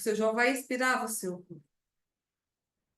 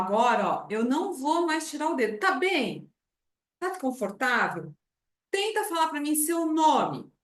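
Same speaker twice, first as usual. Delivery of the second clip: reassuring; 4 semitones higher, 4 dB louder than usual. Shown as a demonstration.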